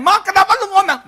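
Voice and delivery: high, loud pleading; mock bewildered question. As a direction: ask it in comic squeaky bafflement. Husband questions his moody wife.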